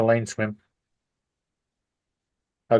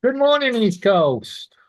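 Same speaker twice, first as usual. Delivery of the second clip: sing-song greeting; 10 semitones higher, slower than usual. Real, not acted. Cheery greeting to the stream.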